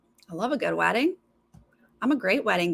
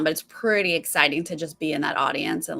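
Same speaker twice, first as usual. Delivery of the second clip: usual speaking voice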